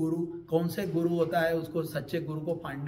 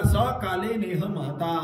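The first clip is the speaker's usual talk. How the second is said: slow, louder verse recitation; 4 dB louder, slower than usual. Shown as a demonstration. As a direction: intone the line deliberately. (श्लोक का धीमा पाठ)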